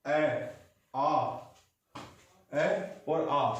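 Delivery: ए and आ sounded from the throat; vowel demo. Shown as a demonstration. Teacher sounding vowels so students feel the throat. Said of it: "इसकी voice देखो कहाँ निकली".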